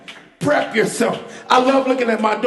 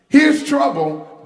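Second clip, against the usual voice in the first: slow emphatic setup; 5 semitones higher, slower than usual. Real, not acted. Preacher's contrast refrain.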